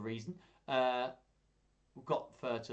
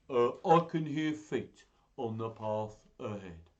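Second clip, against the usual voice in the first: big, wary beast voice; Gruffalo monster; 2 semitones lower, 3 dB louder than usual. Acted. Gruffalo hearing feet ahead, wary monster voice. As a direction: say it as a lumbering monster.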